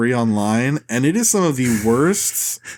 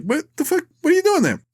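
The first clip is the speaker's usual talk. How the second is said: high, strained mock outburst at a parked car; Larry mock yell; faster than usual. Larry yelling at a badly parked guy, high mock outrage. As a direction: squeak it out way up high. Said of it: "And Larry's like".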